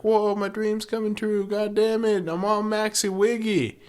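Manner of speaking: high, hammed-up valley girl Buffy; Buffy panics about her dream in a high mock voice. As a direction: squeak it out like a ditzy teen. Imitating Buffy.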